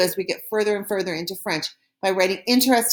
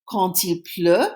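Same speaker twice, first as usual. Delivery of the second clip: reading aloud. Shown as a demonstration. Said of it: "why don't I read it one more time for you".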